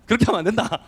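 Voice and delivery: loud scolding. Shown as a demonstration. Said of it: "다 크게 목소리 딱 자신감 있게".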